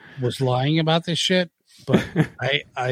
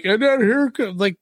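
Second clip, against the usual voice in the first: mock announcer hype; 11 semitones higher than usual. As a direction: draw out the intro like a hyped commentator. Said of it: "you're like".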